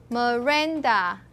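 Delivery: "Miranda" drawn out, stressed on "ran"; stress on second syllable. Shown as a demonstration. Teacher demonstrates stress in the full name, slow "Miranda" stressed on "ran". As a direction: slowly say "Miranda", leaning on the middle syllable. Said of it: "stress is on the second syllable".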